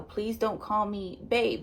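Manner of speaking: slow and soft, just setting a boundary; calm version of the line; calm, collected request. Retold or imitated. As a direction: ask it gently, no heat. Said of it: "Very calm, very cool, very collected".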